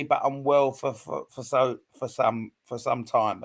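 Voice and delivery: halting, repeating the word for over and over; stuttering. Real, not acted. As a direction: stumble and restart, struggling to get it out. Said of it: "I'm really stuttering with him".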